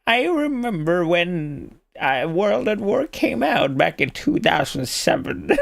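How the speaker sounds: lightly voiced old man, slow start. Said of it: "I can't even do an old man voice anymore".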